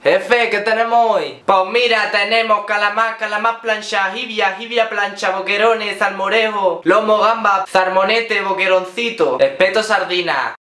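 high, sing-song Andalusian bar waiter. Retold or imitated. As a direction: rattle off tapas like a waiter. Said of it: "En Andalucía tú llegas a un bar".

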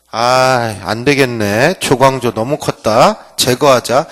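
low, hushed plotting among schemers; hushed conspirators agree to get rid of him; scheming plotters. Retold or imitated. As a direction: mutter it like conspirators deciding. Hungu faction plotting.

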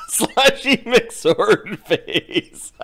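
slow, drawn out through real laughter; laughing. Real, not acted. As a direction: struggle to get the silly name out, laughing. Game master cracks up at silly name.

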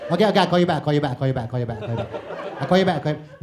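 Malaysian phone goodbye. Retold or imitated. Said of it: "Malaysians, we can't say".

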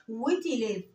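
"ويت إيليف" with t sounded before the vowel; linked t. Shown as a demonstration. Teacher showing eight pupils in French, sounded t. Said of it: "لأن جه بعديها ال".

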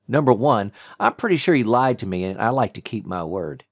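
lightly voiced tough agent; cool tough agent. D J voiced by narrator.

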